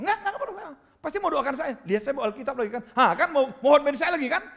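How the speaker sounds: high, loud mocking refusal; acted-out scornful outburst; angry tirade. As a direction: imitate someone railing at the visiting pastor. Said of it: "sebenarnya dia marah-marah terus di tangga".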